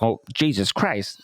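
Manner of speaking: ordinary talk, nothing marked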